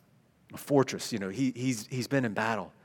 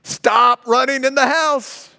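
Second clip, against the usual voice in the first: higher, louder, slow and stern; slow, louder second warning; emphatic repeat; 9 semitones higher, 8 dB louder, slower than usual. Shown as a demonstration. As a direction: hammer it home like an exasperated parent. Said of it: "It's emphasis".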